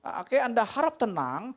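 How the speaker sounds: hammed-up nervous captain to passengers; mock pilot announcement. Pilot addressing passengers mid-emergency, stammering and loud.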